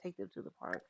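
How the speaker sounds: whispered, sighing and weary; tired whisper. Pretend. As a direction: whisper it like an exhausted mom. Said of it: "she's like".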